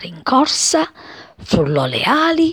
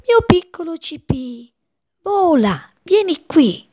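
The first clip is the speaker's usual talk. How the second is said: mother bird; 10 semitones higher than usual. A narrator's reading. Mother bird urges her chick.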